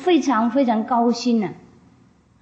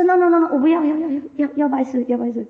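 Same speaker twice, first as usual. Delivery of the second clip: frantic pleading; 7 semitones higher, faster than usual. Retold or imitated. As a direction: scramble to stop the master leaving. Chieftain begs not to be sent away. (首领惊慌地高声恳求拜师)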